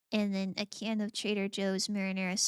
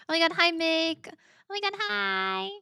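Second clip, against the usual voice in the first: high, louder squeal of hello; excited greeting; 8 semitones higher, 4 dB louder than usual. Real, not acted. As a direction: greet her with delight.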